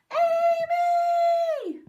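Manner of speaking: loud high yell up the stairs. A narrator's reading. Brother yelling up the stairs to wake his sister, loud. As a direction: bellow the name at full volume. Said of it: "yelled as loudly as he could".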